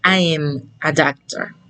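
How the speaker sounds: "I am a doctor" as "I'm a doctor", A swallowed; contracted, no A. Shown as a demonstration. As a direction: run "I am" into one syllable "I'm". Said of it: "aquí no pronuncio la A". ("I am a doctor" contraído como "I'm a doctor")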